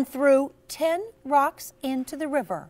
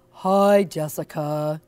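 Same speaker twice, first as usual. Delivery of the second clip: put-on lower, flat hi from a boy; boy's greeting; 7 semitones lower, 3 dB louder, slower than usual. Jeremy greeting Jessica after his fight, low and glum. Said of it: "Jeremy said".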